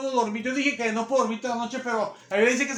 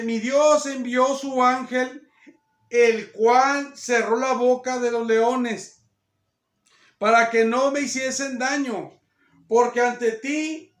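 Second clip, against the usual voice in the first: slow, projected Bible reading; measured, emphatic verse reading; declaimed scripture; 4 dB louder, slower than usual. A narrator's reading. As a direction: proclaim each phrase, drawn out. Reads scripture aloud.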